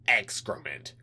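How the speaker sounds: a hint of a menacing alien; menacing alien official. Alien liaison curses.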